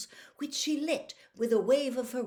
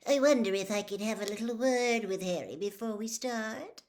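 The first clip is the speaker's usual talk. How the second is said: breathy, hushed scheming reporter voice; Rita Skeeter whispering; 4 dB louder than usual. A narrator's reading. Reporter asks Bagman for Harry, whispered. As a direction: lean in and whisper the request sweetly.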